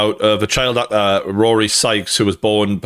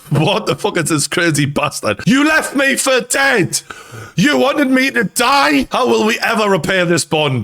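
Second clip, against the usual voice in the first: indignant dog voice; 10 semitones higher than usual. Retold or imitated. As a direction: voice the betrayed dog, high and outraged. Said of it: "That dog is like".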